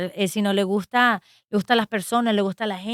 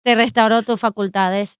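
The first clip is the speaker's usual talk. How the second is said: louder and firm, slowing at the end; firm papal declaration; 2 semitones higher, 6 dB louder than usual. Retold or imitated. The Pope restores the priest's faculties, louder and firm. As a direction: insist with full authority, louder. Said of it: "Le dice".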